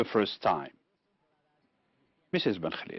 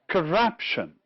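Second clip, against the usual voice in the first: corruption with the middle syllable stressed; stress on second syllable; 3 semitones higher than usual. Shown as a demonstration. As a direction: lean on RUP in corruption, then fall. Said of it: "it's the second one".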